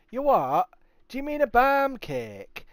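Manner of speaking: loud, high-pitched incredulous query; baffled retort. Retold or imitated. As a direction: act out a baffled chip-shop worker. Acts baffled Blackpool chippy staff.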